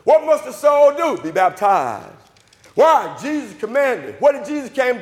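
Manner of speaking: driving sermon rhythm, punched questions and answers; full-force preaching. Acted. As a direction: hammer the gospel home to the congregation. Preaches with call-and-response questions.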